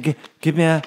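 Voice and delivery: ordinary talk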